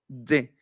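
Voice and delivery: "D" as "dze", tongue behind the teeth; demonstrated dze; D with a little Z. Shown as a demonstration. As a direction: release D into a slight Z. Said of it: "atrás de los dientes".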